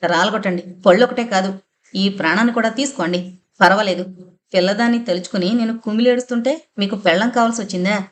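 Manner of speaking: grieving mother lashing out, fast and heated; bitter outburst, stress on జంతువు; rapid accusing rant, rising pitch; loud angry tirade. Acted. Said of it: "అమ్మ అంత బిగ్గరగా అరిచి మాట్లాడడం".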